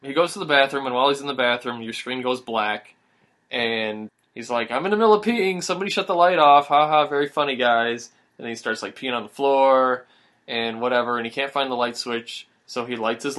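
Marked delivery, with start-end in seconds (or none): 4.7-8.1 raised, higher annoyed yell; annoyed gamer. Retold or imitated. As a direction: call out to the pranking friends. Retold annoyed gamer in dark.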